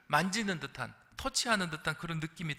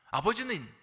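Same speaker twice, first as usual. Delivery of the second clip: ordinary talk, nothing marked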